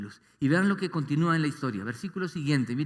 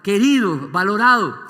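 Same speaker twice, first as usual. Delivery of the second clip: emphatic; 4 semitones higher, 10 dB louder than usual. Real, not acted. Preacher stressing the child's low worth.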